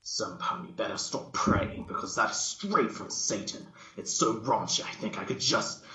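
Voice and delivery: posh pony, half-whispered at first; a touch of a fussy lady about to retch; Rarity gagging. Acted. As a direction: gag on the stench, gaining volume.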